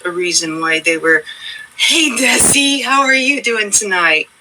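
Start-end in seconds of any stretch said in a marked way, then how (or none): 1.8-4.3 cheery customer greeting. Retold or imitated.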